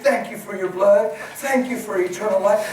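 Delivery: praise fit. Retold or imitated. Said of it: "praise fit".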